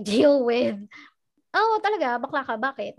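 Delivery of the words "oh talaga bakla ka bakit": a taunting imitation of prying people; mock gossip voice. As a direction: mimic a nosy gossip. Mocking quote of people's comments.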